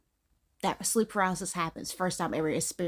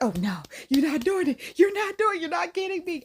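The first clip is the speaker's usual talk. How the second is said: mock defiance; 9 semitones higher, 4 dB louder than usual. Refusing sleep paralysis, retold.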